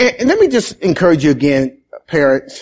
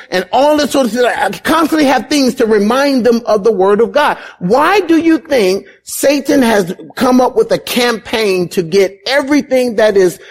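raised-pitch sermon challenge; urgent preaching; 7 semitones higher than usual. Acted. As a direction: challenge the congregation with insistent questioning. Preaches to the congregation.

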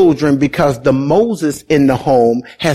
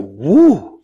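amazed "woo". Retold or imitated. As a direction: let out a woo, overwhelmed by the thought. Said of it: "I'm just like".

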